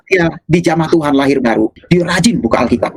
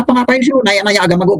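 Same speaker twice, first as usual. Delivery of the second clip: annoyed question; 5 semitones higher, faster than usual. Retold or imitated. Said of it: "Dia tanya".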